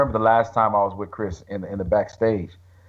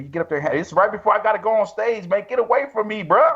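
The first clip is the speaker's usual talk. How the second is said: teasing plea; 7 semitones higher than usual. Retold or imitated. Retold plea before going on stage.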